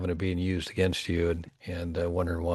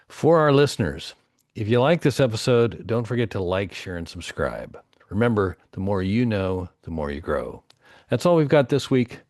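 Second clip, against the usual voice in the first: podcast host sign-off; 5 dB louder than usual. Real, not acted. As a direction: sign off the show to the listeners.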